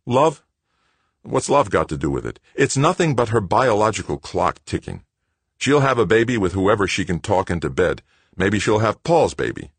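scornful. Acted. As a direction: sneer at the idea. Greg scornful.

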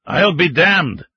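drawn out in stubborn disbelief; old man Gogol. Acted. Old man to the mining chief, slow disbelief. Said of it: "Pavel Petrovich said".

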